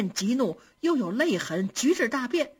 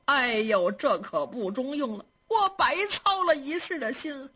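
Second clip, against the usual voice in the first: a hint of a wailing old nurse; old nurse lamenting; 4 semitones higher than usual. Old nurse despairing over the boy, lightly wailing. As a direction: lament lightly, rising high at the end. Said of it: "捶床捶枕头说".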